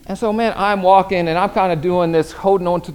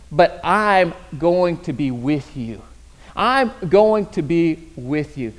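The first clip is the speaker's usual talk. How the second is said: slow reassurance; 2 semitones lower, slower than usual. Acted. God's promise, slow.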